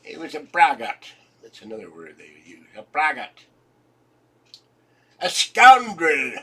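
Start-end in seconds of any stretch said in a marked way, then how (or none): 5.2-6.3 "scoundrel" loud and slow; "scoundrel" said loud and slow, stretched out; relish scoundrel. Shown as a demonstration. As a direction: savour "scoundrel" with a loud drawn-out stress. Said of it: "They were big on scoundrel".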